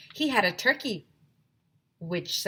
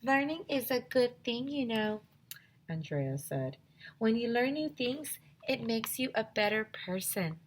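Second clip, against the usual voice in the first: high, prim know-it-all voice; higher, softer prissy lecture; 5 semitones higher, 4 dB quieter than usual. Acted. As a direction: lecture them like a goody-goody. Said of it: "little Miss Know-It-All".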